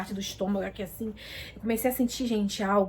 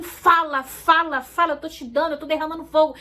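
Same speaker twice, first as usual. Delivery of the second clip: urgent, insistent command, a little raised; lightly voiced divine urging; urging Holy Spirit; 3 semitones higher than usual. Holy Spirit urging her to speak, insistent retold command. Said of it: "é como se o Espírito Santo".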